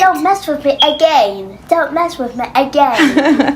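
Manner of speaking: light mock of mom's British-tinged accent, teasing; mimicking mom's accent. Daughter teasing her mom, lightly mimicking her British-tinged accent. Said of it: "I do not speak like that".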